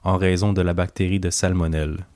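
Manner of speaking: deep, captivating radio announcer voice. Shown as a demonstration. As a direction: read it like a hypnotic late-night radio host. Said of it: "ma voix la plus, euh, grave et, euh, envoûtante".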